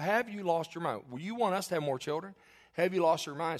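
mock outraged husband; incredulous. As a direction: act out disbelief at the suggestion. Retelling his incredulous reply to wife.

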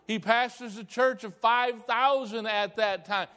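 high, loud, drawn-out preacher's tirade; outraged shouting. Retold or imitated. Pastor aghast at bouncing his hero's check, outraged shouting. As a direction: thunder each phrase slowly at full force.

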